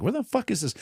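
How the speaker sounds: high, frustrated mock shout; ranting while tearing the house apart; searching for the lost watch, exasperated yell.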